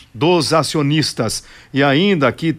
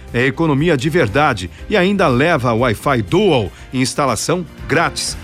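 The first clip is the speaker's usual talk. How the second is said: upbeat radio ad read; hard sell ad. Acted.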